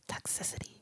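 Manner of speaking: unvoiced whisper of a song title; whispered word. Shown as a demonstration. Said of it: "you gotta whisper it".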